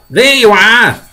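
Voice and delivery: high, loud triumphant call. Acted. Police chief proved right to fire chief, high shout. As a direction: call it out as proof. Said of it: "called the chief of police".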